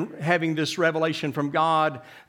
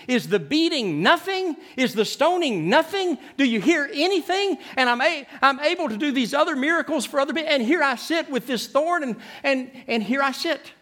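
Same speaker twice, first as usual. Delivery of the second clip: anguished pleading; 7 semitones higher than usual. Retold or imitated. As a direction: cry out to God as if unheard. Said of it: "begging God and lamenting".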